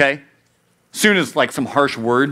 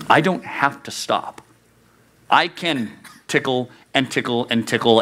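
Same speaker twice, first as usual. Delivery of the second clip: usual speaking voice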